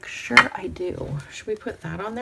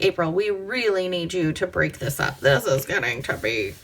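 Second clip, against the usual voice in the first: a silly viewer voice; 3 semitones lower than usual. Pretend. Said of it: "I don't know why I did that voice".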